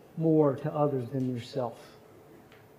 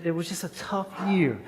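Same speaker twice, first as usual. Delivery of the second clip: whispered; 5 semitones higher than usual. Real, not acted. Pastor confides a hard year.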